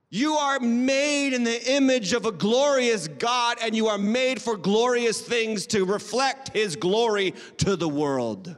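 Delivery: slow, ringing preacher's declaration; emphatic preaching. Retold or imitated. Preacher passing on God's word to congregation, emphatic preaching. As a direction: proclaim it slowly with weight on key words.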